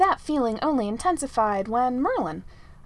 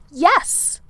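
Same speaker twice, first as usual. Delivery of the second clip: higher, louder grand announcement; much louder triumphant yes; announced impressively; 8 semitones higher, 10 dB louder than usual. A narrator's reading. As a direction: declare it proudly. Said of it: "announced Merlin impressively".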